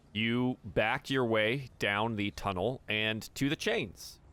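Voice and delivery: slow, measured scene narration; storyteller setting the scene; game master narration. Acted. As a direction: narrate the move slowly and deliberately.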